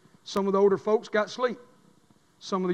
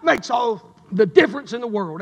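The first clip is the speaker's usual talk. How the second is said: preached quote, loud and high; shouting believer's testimony; voicing the believer; 6 semitones higher, 9 dB louder than usual. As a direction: cry it out as the one who is sealed. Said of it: "and he says".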